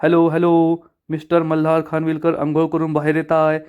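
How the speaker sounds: lightly voiced public-address call; playful pretend announcement from the doorway; hint of a formal announcer; mock announcement. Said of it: "हीच announcement करतो".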